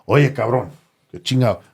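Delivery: retold Sinaloan-accented telling-off; Sinaloan dad. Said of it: "in this, in Sinaloa".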